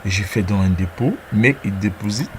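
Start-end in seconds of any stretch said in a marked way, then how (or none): 1.3-2.3 English with a French-speaking accent. Real, not acted. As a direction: read the English in your own French accent. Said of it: "pour mon accent en anglais". (anglais avec un accent francophone)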